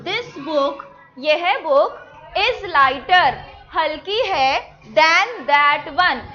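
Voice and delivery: slow exercise read-aloud. Shown as a demonstration. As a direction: drag each word out, loud. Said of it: "teacher models slowly".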